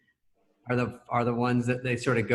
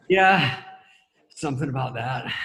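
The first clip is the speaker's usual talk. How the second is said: Chris; 5 dB louder than usual. Retold or imitated. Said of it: "And he goes".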